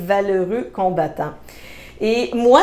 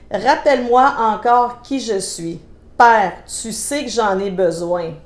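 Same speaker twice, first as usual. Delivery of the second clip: measured reading with pauses between lines; lyrics read aloud. Acted. Woman reading a worship song's words to listeners, measured recital. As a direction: recite it line by line, like a prayer.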